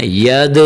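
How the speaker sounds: "ید" with an echoing bounce on the final d; "ید" released with a short echo after the d; qalqalah on dal. Shown as a demonstration. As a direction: bounce off the d at the end of "ید". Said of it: "یہاں حرف دال کو کلکلا دینا ہے".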